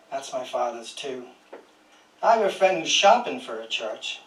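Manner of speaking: measured, even poem reading voice; poetry reading. Acted. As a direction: read each line as a poem, letting it settle. Reads a poem aloud.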